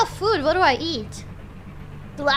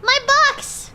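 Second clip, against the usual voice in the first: excited; 12 semitones higher, 5 dB louder than usual. Real, not acted. Excited exclaim on getting box.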